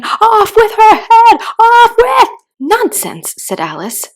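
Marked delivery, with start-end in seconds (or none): 0.0-2.3 high, shrieking royal scream. A narrator's reading. Furious queen screaming for Alice's head. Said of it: "began screaming". 2.6-3.3 loud, firm dismissal; loud and decided. A narrator's reading. Alice firmly defying the raging queen, loud. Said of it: "very loudly and decidedly".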